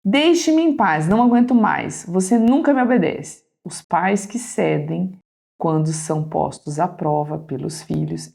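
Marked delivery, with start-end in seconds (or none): 0.0-3.4 defeated mother. Acted. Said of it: "gesto de derrotada".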